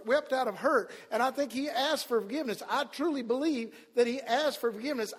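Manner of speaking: impassioned preaching. Real, not acted. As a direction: press each belief on the congregation. Preaching with raised voice.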